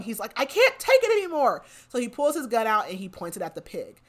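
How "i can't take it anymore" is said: high, loud mock yell of frustration; a hammed-up outburst at breaking point; retold yell. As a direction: shout it like you've snapped. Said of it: "like, starts yelling".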